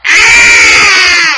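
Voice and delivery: sudden high delighted shout; excited shout. Real, not acted. Teacher shouting with delight at the drawing. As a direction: burst out with a thrilled cry.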